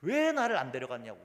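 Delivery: mock indignant complaint, stretched opening word; retold fuss. Elderly deacon protesting being left behind, mock-indignant. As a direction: act out an elderly member's protest. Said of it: "집사님이 난리가 난 거예요".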